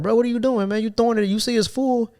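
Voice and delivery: a touch of mock anger; exasperated. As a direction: call him out with disbelief. Retold confrontation with coworker.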